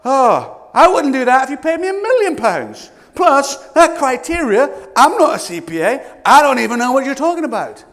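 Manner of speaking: exasperated mock reply. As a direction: groan through it like a bored job seeker. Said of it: "I go".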